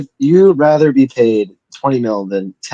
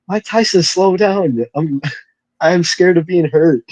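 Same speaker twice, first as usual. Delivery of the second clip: higher, a hammed-up frightened plea; mock scared plea; 5 semitones higher than usual. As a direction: beg like a scared kid in the ring. Imagined scared Jake Paul.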